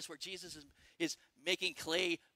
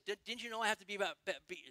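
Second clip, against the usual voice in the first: rushed, stumbling over the words; getting excited; 4 dB quieter, much faster than usual. Real, not acted. Preacher racing through a Bible quote, excited and stumbling. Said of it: "sorry, I'm getting excited".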